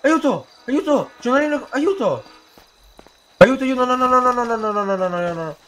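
panicked cries for help; being chased. Acted. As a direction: yell for help while fleeing.

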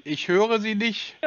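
to someone hard of hearing. Real, not acted. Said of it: "Sie haben eine schlechte Telefonverbindung".

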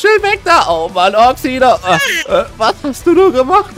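loud, high panicked yelling; panicked shout. Acted. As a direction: cry out in alarm at the blast. Explosion, panic in the game.

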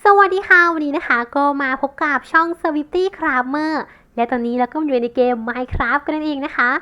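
loud, slow channel intro; streamer intro. Shown as a demonstration. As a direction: announce it like a game streamer. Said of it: "สมมุติว่าเราเล่นเกมกับเพื่อนหรือว่าแคสเกม".

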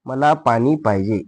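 measured word-by-word repeat; slow dictation. Shown as a demonstration. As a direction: give pupils time to write. Teacher repeats slowly for dictation. (सावकाश शब्द सुटे करून)

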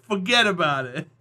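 lightly done New Jersey accent; a casual, understated Jersey accent. Shown as a demonstration. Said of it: "Or a New Jersey accent".

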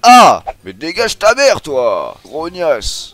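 high, loud scream and insults; startled, furious outburst; angry yelling. Real, not acted. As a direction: yell at an attacker to back off. Attacked, insults the creature.

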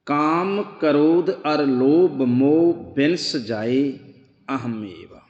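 slow, measured recitation of the verse; scripture recitation. Acted. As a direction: intone the shloka slowly. (ਹੌਲੀ ਹੌਲੀ ਸ਼ਲੋਕ ਦਾ ਪਾਠ)

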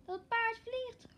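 high, slow startled cry. Acted. Juf Roos ziet het paard vliegen, startled high cry. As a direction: gasp it out in shock. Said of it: "Ze geeft een gil van schrik".

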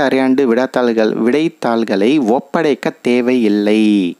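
measured, emphatic headline reading; news headline read-out. Acted. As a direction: read the bulletin out formally, drawing out key words. Reads the news headline aloud. (செய்தித் தலைப்பை நிதானமாக வாசிக்கும் தொனி)

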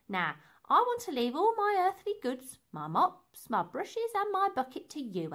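hammy farewell. Acted. Lady's grand farewell.

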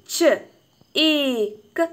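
"ച", "ഈ", "ക" as three isolated sounds with gaps; sounding out. Shown as a demonstration. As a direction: sound out "ച", "ഈ", "ക" one at a time. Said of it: "അപ്പോൾ എങ്ങനെയാണ്".

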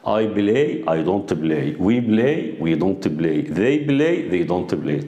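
slow drilled model sentences. Shown as a demonstration. Teacher drilling affirmative and negative sentences slowly. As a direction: read each example clearly for the class. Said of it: "اقول دونت".

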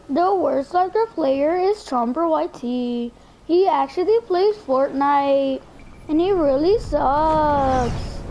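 drawn-out list-show announcer voice; slow countdown announcer. Acted. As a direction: read it like a slow top-ten countdown.

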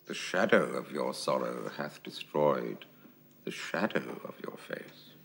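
low, measured Shakespearean verse; low-pitched answer, weighing each phrase; pointed low stage voice, dropping away at the end; cool Bolingbroke reply. Acted. Actor replies as Bolingbroke.

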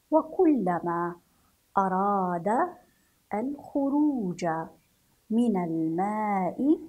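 put-on slow, carefully paced reading to young pupils; story reading for children. Teacher reading a story to pupils, slow and clear. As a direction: read each word out, pausing between them.

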